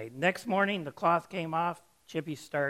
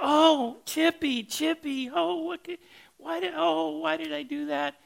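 much higher, loud panicked wail; horrified owner; 14 semitones higher, 7 dB louder than usual. Retold or imitated. Owner discovers her canary sucked into the vacuum, much higher panicked wail. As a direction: shriek it out as the lady who just vacuumed up her bird. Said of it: "she goes".

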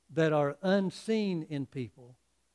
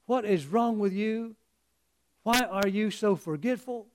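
mildly exasperated dog owner, higher pitched; a touch of cross reproach; scolding; 3 semitones higher than usual. Acted. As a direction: act out telling off a dog. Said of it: "the master just jumps all over that dog".

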